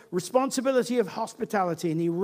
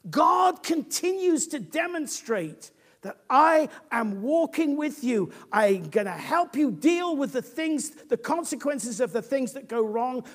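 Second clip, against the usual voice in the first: emphatic preaching; 7 semitones higher, 4 dB louder, slower than usual. Acted. Preacher voicing God's assurance.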